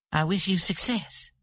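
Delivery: cold, clipped farewell to her husband; sudden coldness. A narrator's reading. Santa answering her departing husband with sudden coldness. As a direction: turn to ice. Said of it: "with a sudden coldness".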